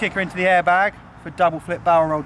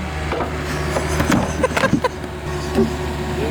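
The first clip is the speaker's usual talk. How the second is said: breathless high laugh. Real, not acted. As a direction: burst out laughing. Laughs at lost log.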